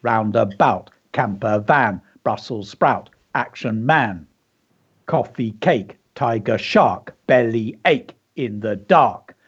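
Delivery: "roundabout" and each phrase in three even beats; measured, syllable-by-syllable rhythm through "camper van". Shown as a demonstration. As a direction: mark the beat on "tiger shark". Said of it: "three beats".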